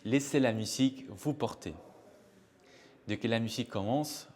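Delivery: measured guided-visualization voice with long pauses; guided meditation. Shown as a demonstration. Music therapist leading listeners through a short musical imagery exercise, guided meditation. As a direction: guide listeners inward, phrase by phrase, leaving space.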